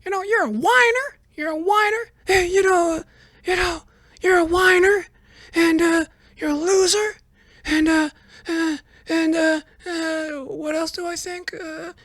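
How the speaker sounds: very high, squeaky, rambling name-calling; a cartoon-high Biden calling Trump a whiner; squeaky parody of Biden trading insults, losing the thread; mocking Biden insults. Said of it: "Biden did chime in with the insults".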